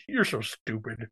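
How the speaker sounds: talking around ice in mouth. Real, not acted. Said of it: "talking with ice in your mouth".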